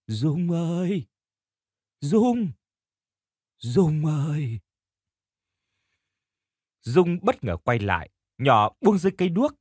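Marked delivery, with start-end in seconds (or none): 0.1-4.6 slow, far-off wailing call; a ghost calling from far away; distant ghostly call. Acted. Ghost calling Dung's name from the dark, eerie and distant. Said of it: "tiếng gọi xa xăm".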